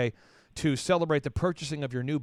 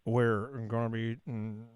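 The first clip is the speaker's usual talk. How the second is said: lower, very slow Oklahoma twang, groping for words; slow Oklahoma drawl; 7 semitones lower, 4 dB quieter, slower than usual. Shown as a demonstration. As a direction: stall like you forgot the line, in an Oklahoma drawl. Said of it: "almost like you forgot what you're gonna say".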